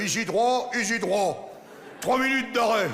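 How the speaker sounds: put-on stationmaster's call in Champagne accent. Stationmaster announcing a stop back home, Champagne accent. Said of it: "le chef de gare, il dit".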